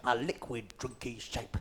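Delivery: hushed mock advert read; soft advert voice. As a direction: coo it like a cheesy ad.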